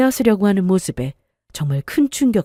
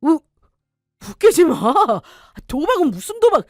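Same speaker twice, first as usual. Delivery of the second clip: angry denial; 6 semitones higher than usual. Acted. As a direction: bluster your way out, outraged. Husband denies gambling accusation.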